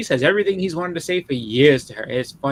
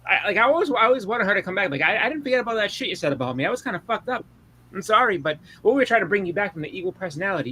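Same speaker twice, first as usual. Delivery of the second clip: mock apology; 6 semitones higher than usual. Reed voiced apologising in retelling.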